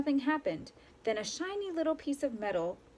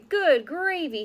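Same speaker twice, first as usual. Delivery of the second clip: high, louder sputter; 6 semitones higher, 7 dB louder, slower than usual. A narrator's reading. The mayor sputters over his pie, surprised. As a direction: choke out the words. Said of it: "he sputtered".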